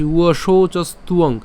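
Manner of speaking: "উয়শৌচস্তুয়ং" as one linked word; no pause before the final syllables; joined up. Shown as a demonstration. Teacher repeating for learners, connected "উয়শৌচস্তুয়ং". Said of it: "আমি আবার বলছি".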